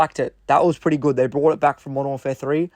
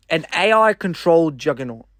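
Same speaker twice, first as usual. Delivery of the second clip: odd reading voice. Real, not acted. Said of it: "I don't know why I said it like that".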